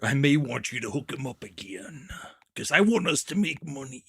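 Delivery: lightly voiced wrestler impression; Macho Man. Co-host echoing the wrestler's line from the clip, imitated wrestler voice.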